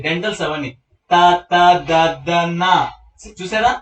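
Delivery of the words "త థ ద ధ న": త, త, ద, ద, న with tongue tip at the teeth; measured dental chant of త, త, ద, ద, న; dental sounds. Shown as a demonstration. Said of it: "పంటి దగ్గరకు వస్తది". (త, త, ద, ద, న పంటికి నాలుక తాకిస్తూ)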